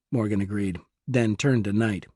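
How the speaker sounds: plain reading voice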